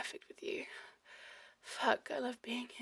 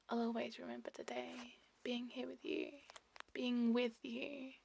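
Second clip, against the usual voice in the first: cosy intimate murmur. Acted. Lover cuddling up with a partner, tender murmur.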